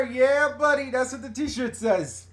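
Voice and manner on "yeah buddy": put-on loud, high party-boy catchphrase; hyped reality-show shout-out; Jersey Shore catchphrase. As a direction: belt out the drawn-out "Yeah, buddy". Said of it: "You know, from Jersey Shore".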